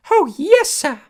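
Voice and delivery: high, loud eager elf voice; keen to please; earnest house elf. A narrator's reading. House elf answering Harry, high and earnest. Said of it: "said Dobby earnestly".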